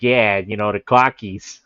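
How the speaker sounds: playful Boston accent, lightly put on. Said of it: "I'm gonna start talking like a Bostoner".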